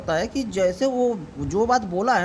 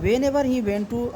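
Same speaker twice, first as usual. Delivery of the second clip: very slow, word by word; slow reading; much slower than usual. Shown as a demonstration. Teacher reading slowly to student. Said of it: "देखो क्या करा".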